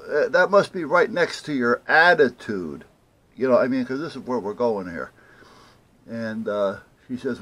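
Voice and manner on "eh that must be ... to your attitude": loud, higher-pitched jab; retold sarcastic retort. Caller retorts to rude clerk on phone, sarcastic. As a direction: throw it back at the clerk, loudly sarcastic.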